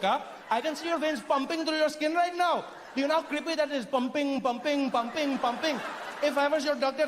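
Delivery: lightly voiced Indian local, baffled and teasing; Indian character. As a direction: marvel at his looks in an Indian accent. Indian mocks colonizer's pale skin.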